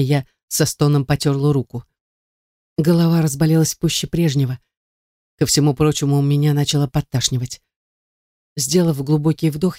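plain reading voice

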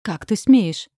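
a sister's sharp, reproving outcry; reproachful outburst. A narrator's reading. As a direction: scold her for the cruel words. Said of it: "осуждающе прикрикнула на меня Белла".

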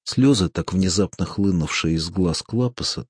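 ordinary delivery, nothing marked

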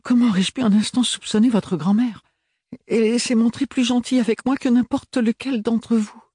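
voix haute et plus forte, outrée; indignation vive. A narrator's reading. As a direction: protester avec éclat. Ophélie protests indignantly. (Ophélie défend la grand-mère, haut et fort)

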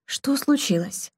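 demanding. A narrator's reading. Marquis demanding what happened, mild urgent demand. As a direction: press for an answer, mildly urgent. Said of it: "потребовал ответа маркиз".

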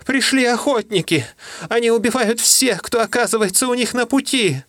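high, strained alarm; frantic tiny messenger voice; panicked little creature. Acted. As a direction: squeal out the danger. Mishere keeps raising the alarm.

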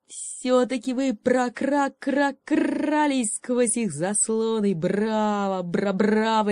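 a raven praising them grandly. Acted. Raven voiced, croaking stutter. (каркающий голос ворона, медленно)

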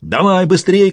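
high, urgent order; bossy high-pitched command. A narrator's reading. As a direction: hurry them up, pitched high. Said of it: "командовал таракан".

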